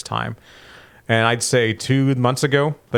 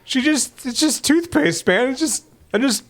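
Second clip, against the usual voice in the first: while brushing teeth; 13 semitones higher than usual. Real, not acted. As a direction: mouth full of toothpaste. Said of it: "I'm in the middle of brushing my teeth".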